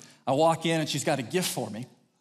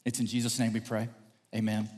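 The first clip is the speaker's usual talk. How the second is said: low, measured praying voice; prayer; 4 semitones lower, 3 dB quieter than usual. Real, not acted. Preacher praying for God's spirit on his words, prayerful. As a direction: pray softly and sincerely.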